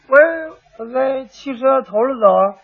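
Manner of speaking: sheepish reply to an officer; hesitant answer. Acted. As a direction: falter on the first word, then answer meekly. Caught-out rider answers the policeman.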